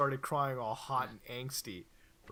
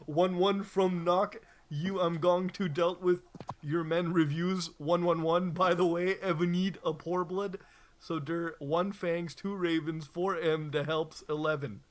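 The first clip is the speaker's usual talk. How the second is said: hammed-up read; 3 semitones higher, 5 dB louder than usual. Reader bellowing the author's garbled note to flamers. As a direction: bellow the nonsense like a proclamation.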